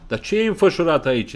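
put-on old woman exclaiming in annoyance; irritated exclamation. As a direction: pawnbroker crying out irritated. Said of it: "exclamă în ciudată bătrâna".

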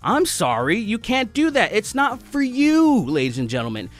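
mock panicked company. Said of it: "they're like".

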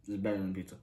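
chewing while talking; words muffled by food; mouth partly full. Real, not acted. Seen 0: bit slice at -4; speaks with mouth still working food.

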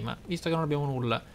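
usual speaking voice

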